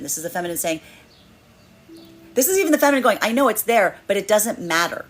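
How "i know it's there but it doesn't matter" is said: firm resolve. Acted. Feminine energy voiced, firm.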